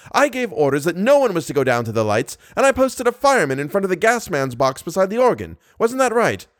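stage manager berating the managers, roaring. Acted. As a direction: rant like a man whose theatre is falling apart. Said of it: "roared the stage manager".

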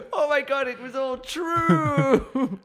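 high laughing disbelief; laughing panic. Acted. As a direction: gasp it out through laughter.

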